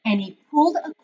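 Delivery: put-on reading a picture book aloud to children; story narration. A narrator's reading. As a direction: tell it gently, like story time for the class. Teacher reads picture book aloud.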